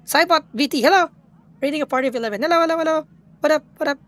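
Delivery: high, loud, eager greeting; excited hello. Real, not acted. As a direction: call out hello to the raid leader.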